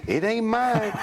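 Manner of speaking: high, laughing retold protest; mock-innocent high laugh through the words; laughing denial. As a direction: laugh it out while denying it. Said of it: "and he said".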